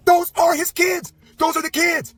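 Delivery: put-on over the laptop photos, awestruck at seeing the kids; stunned recognition. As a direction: say it slowly, shaken as it sinks in.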